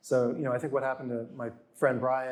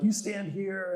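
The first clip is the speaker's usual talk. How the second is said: higher-pitched imitated stage direction; mock crew instruction; 6 semitones higher, slower than usual. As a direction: order someone into place, imitating TV crew.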